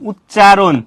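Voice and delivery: "উচ্চারণ" stretched syllable by syllable; careful, lengthened "উচ্চারণ"; sounding out. Shown as a demonstration. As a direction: draw out the opening u of "উচ্চারণ". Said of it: "উচ্চারণ বানানে কি আছে".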